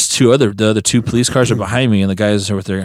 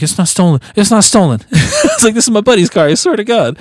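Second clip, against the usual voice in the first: high pleading through a laugh; laughing plea; 10 semitones higher than usual. Retold or imitated. Driver pleading with police that the car isn't stolen, laughing.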